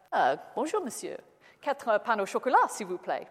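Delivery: put-on French with a plain English accent. Englishman ordering from the baker in clumsy French. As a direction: order pastries in schoolboy French. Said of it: "I know my accent's not particularly good".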